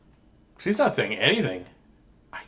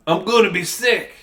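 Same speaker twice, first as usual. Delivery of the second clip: higher, mildly panicked acted cry; 6 semitones higher, 3 dB louder than usual. Sick girl warning her teacher, crying out. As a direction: play a child's urgent wail. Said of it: "I cry".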